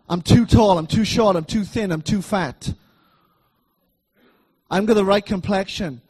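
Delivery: loud, whiny run of excuse-makers' complaints; hammed-up list of excuses, punched loud; mock excuses. Preacher mocking the congregation's excuses, loud and whiny. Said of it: "all these different things of can't".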